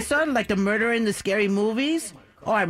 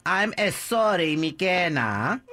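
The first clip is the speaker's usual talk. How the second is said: slow, heavy Guatemalan accent; 3 semitones lower, much slower than usual. Shown as a demonstration. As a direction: repeat it slowly in a thick Guatemalan accent. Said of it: "I'll repeat it, Jason".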